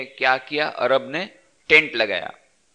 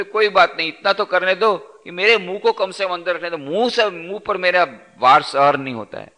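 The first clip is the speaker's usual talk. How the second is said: higher, wheedling plea; coaxing camel; 3 semitones higher than usual. Acted. Camel coaxes the Arab to let its mouth inside, higher and wheedling. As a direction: sweet-talk your way in.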